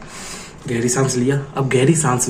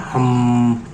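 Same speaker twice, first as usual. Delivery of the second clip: humming. Shown as a demonstration. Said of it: "हम की आवाज़ निकालना है".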